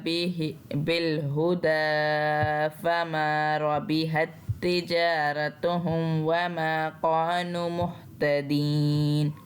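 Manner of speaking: slow, drawn-out tajweed chant; Quran recitation. Shown as a demonstration. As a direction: recite slowly, stretching the vowels. Quran recitation between explanations. (धीमी तजवीद वाली तिलावत)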